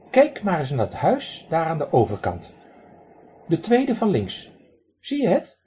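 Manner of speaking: raspy quacking duck. Acted. Drake lectures the man who threw pebbles, high raspy quack. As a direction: play a cheeky drake scolding a stranger.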